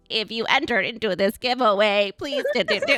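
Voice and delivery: stiff, rehearsed-sounding robotic voice delivery. Retelling own stiff recording of stories: imitating own robotic delivery. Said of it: "I sound like I'm a robot".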